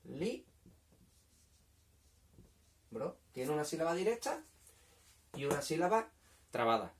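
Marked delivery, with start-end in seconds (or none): 0.1-3.2 libro as two separate syllables, li, long pause, bro; split into syllables. Shown as a demonstration. Teacher showing the two syllables, li and bro slowly separated. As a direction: say li and bro apart, as if writing each. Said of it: "Tiene dos".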